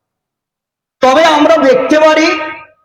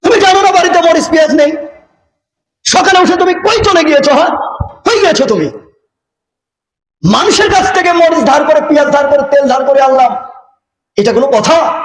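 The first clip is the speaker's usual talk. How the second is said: quick, higher-pitched nagging, mildly acted; scolding wife; 4 semitones higher, faster than usual. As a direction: lightly play a wife snapping at her husband. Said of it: "স্ত্রী স্বামীকে দেখে চট করে উঠে বলছে".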